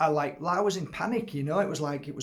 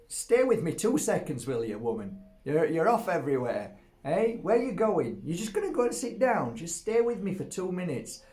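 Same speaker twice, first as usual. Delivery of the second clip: mock scolding dog; 4 semitones higher than usual. Real, not acted. Man scolding his restless dog, mock stern. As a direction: call the dog back, half-cross.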